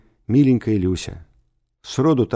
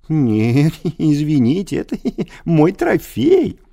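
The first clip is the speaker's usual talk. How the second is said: high, louder giggling refusal; giggling gloat; 7 semitones higher, 5 dB louder than usual. A narrator's reading. Teacher refusing to return the letter, high and giggly. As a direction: tease him with a giggle. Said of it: "Рыжее хихиканье".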